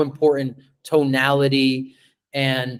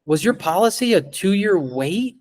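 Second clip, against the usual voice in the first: higher, dismayed "was your policy a two-year wait?"; concerned surprise; 5 semitones higher than usual. Shown as a demonstration. Agent asking client John about his policy, alarmed and concerned. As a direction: ask it like "oh my God, don't tell me it's that". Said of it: "You see how I say that?".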